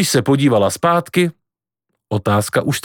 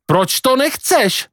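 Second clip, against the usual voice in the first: high, stretched, exasperated question; shouted demand; 13 semitones higher, slower than usual. Acted. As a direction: demand an answer up high and drawn out. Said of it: "křičel Kvido". (rozčilená, vysoká otázka)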